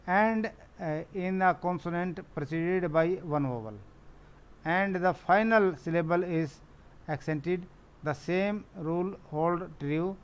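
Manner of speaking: slow, deliberate reading of a textbook rule; slow rule dictation. Acted. Teacher reading the rule to her pupils, slow and deliberate. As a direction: spell out each phrase slowly for the class. Reads spelling rule aloud.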